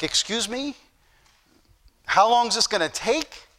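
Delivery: drawn-out, mildly offended question; a touch of sassy disbelief, stretched slow; mock indignant attitude. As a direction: slowly mimic her snippy impatience, ending on a rise. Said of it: "She just had this major attitude".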